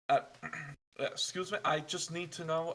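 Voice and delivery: put-on light German-tinged accent back on I just need to know; retry with the traveler's proper accent; corrected traveler accent. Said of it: "wrong accent, sorry".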